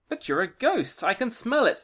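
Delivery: high accusing crone; old witch voice. Acted. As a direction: sniff out the ghost.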